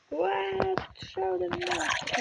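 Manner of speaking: high, drawn-out alarm; startled cry. Real, not acted. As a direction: yelp as another monster jumps you. Sudden monster attack in game. (переляканий вигук)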